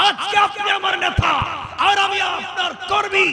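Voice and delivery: high, loud preacher's declamation; high sermon shout, easing at the end; impassioned shouted pledge. Retold or imitated. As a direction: proclaim the youth's vow at full force. Youth's retold pledge, preached at full force.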